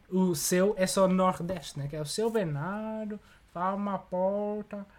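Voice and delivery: slow Northeastern Brazilian drawl; lazy Nordeste Brazilian accent. Shown as a demonstration. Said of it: "sabes imitar bué da bem".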